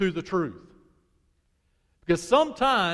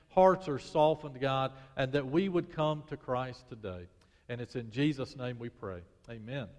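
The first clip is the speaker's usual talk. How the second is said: prayer; 3 semitones lower than usual. Acted. Pastor praying for his church, hushed and earnest.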